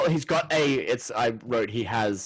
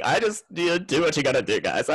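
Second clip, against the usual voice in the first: higher, louder teary plea; mock Keisha; 5 semitones higher, 4 dB louder than usual. Keisha pleading with housemates, higher and louder. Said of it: "she's going".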